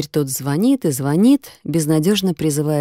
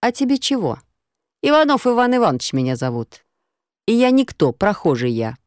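cheeky passer-by; 5 semitones higher than usual. Acted. Rough passer-by mocks the girl's question, cheeky. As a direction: tease her with a fake name. Прохожий отвечает нагловато.

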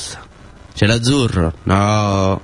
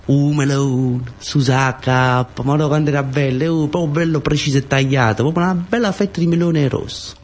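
rapt excitement; 5 semitones higher than usual. Acted. Rapt memory of red sky.

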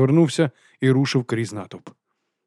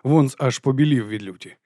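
plain reading voice

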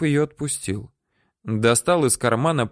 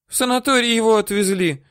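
put-on high, whiny old-woman voice; woman whining denials at her captor; whimpering; 12 semitones higher, 3 dB louder, faster than usual.

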